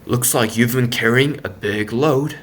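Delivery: lightly voiced gentle authority; calm, deep, kind. A narrator's reading. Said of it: "calm and deep and kind".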